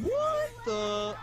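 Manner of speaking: high cut-off disbelief; startled. Real, not acted. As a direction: caught off guard, pitch jumps up. Startled mid-game.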